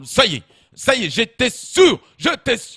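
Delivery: father's outburst in a put-on African accent; scandalised old father, African accent; Jean-Marie Le Pen. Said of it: "il a pris l'accent africain".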